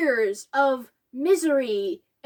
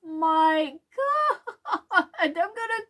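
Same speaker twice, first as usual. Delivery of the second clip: slow, choked half-sob; tearing up at the scene, only half-real; mock crying; 4 semitones higher, much slower than usual. Fan moved by Harry's hopes, slow and choked. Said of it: "I was just like".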